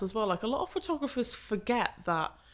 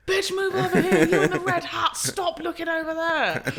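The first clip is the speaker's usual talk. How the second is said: much higher, louder barking orders; bossy monster voice; 10 semitones higher, 7 dB louder than usual. Retold or imitated. Experienced photographer ordering wedding guests around, loud bossy shout. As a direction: bark at the guests like a drill sergeant, laughing. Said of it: "develop this monster personality".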